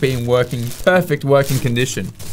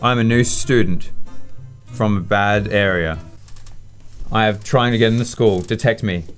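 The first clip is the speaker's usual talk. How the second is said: low, deliberate mock student voice; mock-solemn new student, low and halting; pretend new student; 5 semitones lower than usual. Acts new student at school checkpoint.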